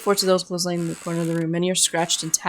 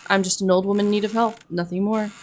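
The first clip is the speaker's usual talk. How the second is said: lightly voiced old woman, slight smile; 2 semitones higher than usual. Old woman reassuring a traveler, hint of a smile. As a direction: let a faint smile into the plea. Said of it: "You can hear a smile in her voice".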